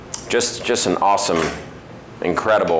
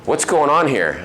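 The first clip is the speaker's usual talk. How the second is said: higher-pitched, inquiring retold question; lightly acted, raised-pitch query; curious guest's question; 7 semitones higher than usual. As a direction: ask it as a puzzled customer. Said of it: "I also wanna ask you".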